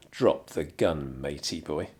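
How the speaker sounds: slow, low mock action hero; tough hero line. Confronting the gunman, mock tough hero. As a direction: growl it like a movie tough guy.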